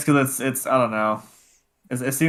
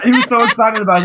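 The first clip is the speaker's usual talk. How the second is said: high, loud laughing words; 11 semitones higher, 9 dB louder than usual. Real, not acted. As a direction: laugh through it. Laughing retelling.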